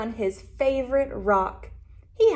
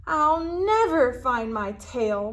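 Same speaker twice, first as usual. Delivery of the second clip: moaning; 4 dB louder than usual. Acted. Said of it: "moaned the little lizard".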